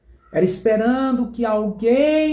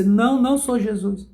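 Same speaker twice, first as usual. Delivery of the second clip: higher, insistent no, I'm not Jesus; mock denial; 3 semitones higher than usual. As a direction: protest with a grin, listing made-up names. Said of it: "E você".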